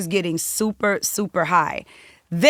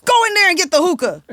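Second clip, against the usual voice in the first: louder angry order; 11 semitones higher, 7 dB louder, faster than usual. Retold or imitated. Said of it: "this is obnoxious behavior".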